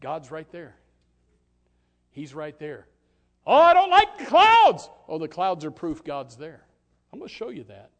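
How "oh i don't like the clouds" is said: high, loud mock whine; complaining believer. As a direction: whine it like a fretful listener. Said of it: "You say".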